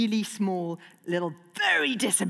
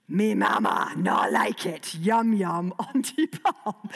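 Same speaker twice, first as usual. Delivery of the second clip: dragon language; 3 dB louder, slower than usual. Acted. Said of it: "common dragon phrases".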